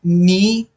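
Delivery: "नी" isolated as the first half of नियर; first part alone. Shown as a demonstration. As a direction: hold "नी" apart as its own sound. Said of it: "नी एक बार बोल रहे हैं".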